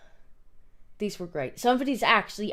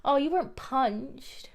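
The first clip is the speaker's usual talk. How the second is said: mock abuser voice; 4 semitones higher, slower than usual. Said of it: "that's how abuses sound".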